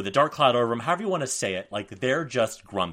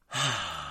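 satisfied sigh; 3 semitones lower, 5 dB quieter than usual. Retold or imitated. Husband losing it at bedtime.

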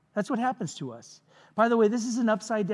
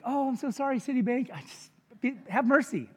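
mock pleading; 4 semitones higher than usual. Debtor begging Citibank for mercy, mock pleading. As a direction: plead pitifully, in play.

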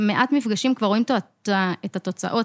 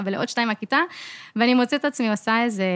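normal talking voice

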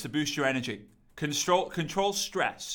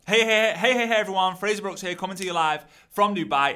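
loud, upbeat host greeting; energetic live intro; 3 semitones higher, 4 dB louder than usual. Shown as a demonstration. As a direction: hype up the live opener. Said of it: "In this episode".

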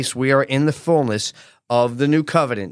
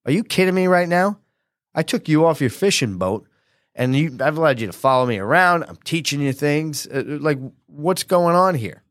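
mock angry rebuke; 3 semitones higher than usual. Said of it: "Jesus would now get angry".

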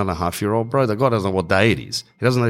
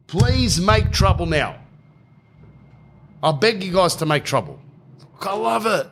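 a pitched-up, creepy-friendly host; 8 semitones higher than usual. Retold or imitated. Host urging guests to make trouble, in a high sugary voice. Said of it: "And he goes".

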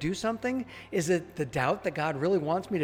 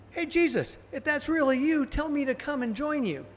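lightly acted, higher-pitched call to someone; 6 semitones higher than usual. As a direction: call over to him, pitch lifted. Voicing Peter calling to Jesus.

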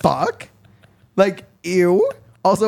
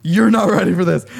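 laughing taunt; 5 dB louder than usual. Acted. Playful taunt before the game.

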